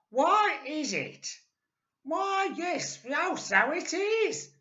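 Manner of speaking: put-on very high, squeaky old woman; Missus Twit. A narrator's reading. Old wife puzzled by her stick, high and squeaky. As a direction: squeak it out like a startled old hag. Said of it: "Missus Twit said".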